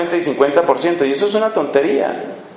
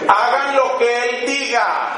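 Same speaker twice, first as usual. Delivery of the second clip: pointed aside; 6 semitones higher, slower than usual. Acted. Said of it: "pero de modo que alcance a oír Jesús".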